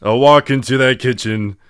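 loud amateur sitcom-star impression; Tim Allen. Friend reciting his assigned quote, loud impression. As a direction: declare the small plan boldly. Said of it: "sounded like Tim Allen".

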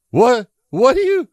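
high, loud startled "What?"; startled yell. Retold or imitated. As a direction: jump in pitch like you've been caught off guard. Scott startled by the son.

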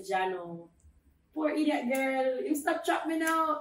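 imitating father. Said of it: "he must say".

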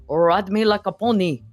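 hammed-up French accent of a stage host. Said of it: "in a French accent".

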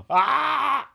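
high loud shocked cry; startled yelp. Real, not acted. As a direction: caught off guard by a slip. Gasp reacting to name slip.

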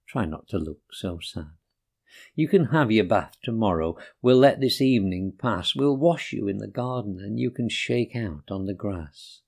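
gentle reassuring owner; gently. Acted. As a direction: soothe the sad dog kindly. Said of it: "stroked his nose so gently and said".

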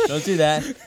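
really mean it this time; emphatic. Shown as a demonstration.

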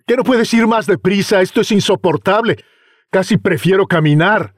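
put-on high exasperated young man; irritated complaining. Impatient youth complains.

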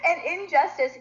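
laughing through the corrected word; amused at her own slip. Real, not acted. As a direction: chuckle as you finally get "injustice" right. Laughs after flubbing the word.

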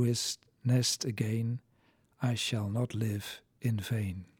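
measured verse reading with firm line openings; poem recitation. Acted. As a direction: let each line rise, then settle and pause. (gedragen poëzievoordracht)

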